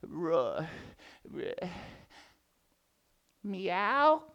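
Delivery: feeble roar that ends in a squeaky meow; weak lion roar fading to meow. Acted. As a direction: let the roar shrink into a kitten's meow. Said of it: "the lion's roar sounded like".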